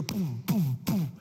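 three short spoken booms; mimicked impacts, one after another; imitated spear thuds. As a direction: boom out each spear hit.

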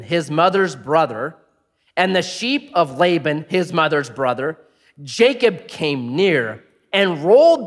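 measured Bible reading to the congregation; sermon reading of Genesis; scripture reading. Acted. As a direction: read the passage with weight.

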